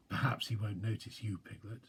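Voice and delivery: a bear reassuring his frightened little friend; encouragingly. Acted. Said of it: "said Pooh encouragingly".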